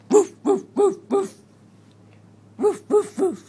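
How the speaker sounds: high loud woof woof; loud playful barking. Acted. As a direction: bark like a puppy, loud and bright. Dog barks for toddler.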